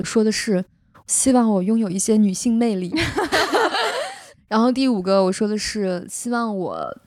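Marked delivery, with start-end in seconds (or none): 3.0-4.1 high, bashful burst of laughter; shy laugh. Real, not acted. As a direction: laugh it off, embarrassed. Embarrassed at her own wish.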